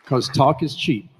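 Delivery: slow, loud, punched out; emphatic shout. Real, not acted. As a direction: shout it over the cheers. Rally climax, crowd cheering.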